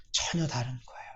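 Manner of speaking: 전혀 다른 거예요 dropped soft, falling away. Real, not acted. Preacher echoing his point to himself, softly. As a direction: let 전혀 sink into a quiet echo. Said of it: "repeated line, softer".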